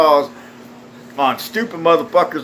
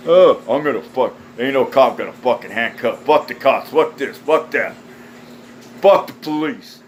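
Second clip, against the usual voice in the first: grumbling mock complaint, pitch sliding down; imitated bellyaching; mock whining; 3 semitones lower than usual. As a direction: whine like a sore loser, mockingly. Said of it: "These motherfuckers sit there whine and cry".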